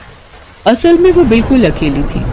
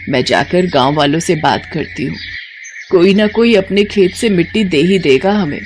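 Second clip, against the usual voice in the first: put-on reassuring old mother-in-law; 2 semitones lower than usual. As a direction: soothe the worried bahu. (शांत, दिलासा देती बूढ़ी सास)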